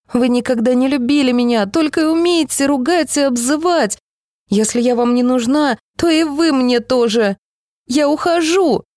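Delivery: put-on high, rising girl's outburst; a child breaking away in anger; hurt girl. A narrator's reading. Girl rejects her mother. (детский срыв, всё выше)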